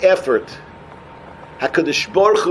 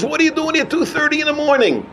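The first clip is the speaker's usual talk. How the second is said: higher-pitched, mock incredulous question; retold surprised question; 8 semitones higher, faster than usual. Visitor to bachur learning late at night, retold surprise.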